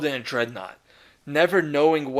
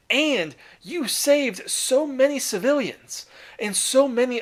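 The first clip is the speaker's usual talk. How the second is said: higher, slowed insistent reassurance; reassuring father; 5 semitones higher than usual. Retold or imitated. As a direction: gently overrule his guilt, lifting every word. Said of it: "But Guilliman's like".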